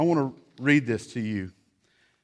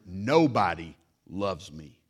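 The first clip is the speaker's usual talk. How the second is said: mock self-pity; 6 semitones lower, slower than usual. Melodramatic child line.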